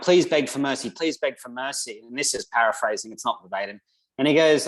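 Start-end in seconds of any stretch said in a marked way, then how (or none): 0.0-0.9 lightly voiced pleading wife, asking once; mild pleading. Wife pleading with Wallace before his execution, mildly urgent. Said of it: "she's like". 0.9-2.0 same plea again, softer and slow; softer pleading. Retold or imitated. Wife begging Wallace once more, soft and slow. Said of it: "she's like".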